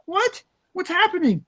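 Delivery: high, baffled what; a mock double take at a silly price; retold surprise. Collector seeing an absurd listing, high baffled surprise.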